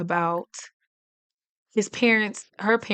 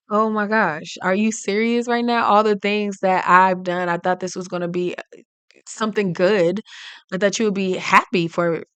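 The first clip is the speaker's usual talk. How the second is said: mild hurt anger; 4 dB louder than usual. Acted. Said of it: "irritated and uncomfortable".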